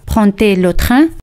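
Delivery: "Prend-elle" con enlace, la d suena t: "pran-tel"; d pronunciada como t. Shown as a demonstration. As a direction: une "Prend" y "elle" con una t clara. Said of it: "D se pronuncia como T". ("Prend-elle" dicho "prantel", la d como t)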